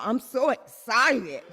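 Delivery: imitating little niece. Aunt imitating her one-year-old niece, childlike glee. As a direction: mimic a toddler's glee. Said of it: "my niece always say she's so excited".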